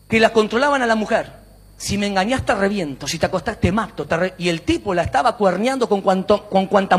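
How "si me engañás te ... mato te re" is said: retold threat. Retold husband threatens wife.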